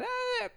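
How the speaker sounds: high-pitched vocalized wind-up; cartoonish high "ah" before the impact; imitated high cry. Neighbor kid throwing a big stone, imitated high cry.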